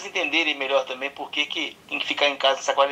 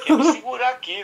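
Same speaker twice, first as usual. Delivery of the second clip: higher, laughing while talking; 7 semitones higher than usual. Real, not acted. Prank victim replying to the caller, amused laughing speech. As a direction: try to hold back laughter and fail.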